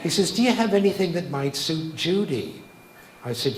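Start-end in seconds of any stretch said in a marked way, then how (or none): 0.3-2.6 imitated New York accent, a bit higher; terrible New York accent. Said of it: "he had a terrible New York accent".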